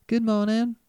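pleasant nurse. A narrator's reading. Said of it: "looking up at him pleasantly".

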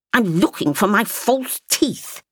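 put-on a touch of irritation, old woman's voice; mildly angry grandmother. A narrator's reading. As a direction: grandmother mildly cross at being asked. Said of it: "she added angrily".

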